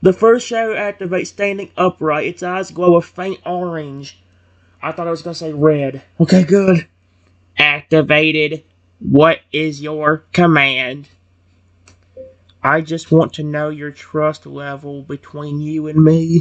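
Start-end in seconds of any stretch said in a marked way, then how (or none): 7.6-11.1 flat, slow, mechanical robot voice. Game narrator voicing a shadow robot as it activates, in a robot voice. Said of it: "I can only do one good robot voice".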